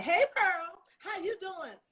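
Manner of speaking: high, loud, breezy mock greeting; mock slick New Yorker. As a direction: lampoon the too-casual auditioners. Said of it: "a New York slickster like some of the ladies".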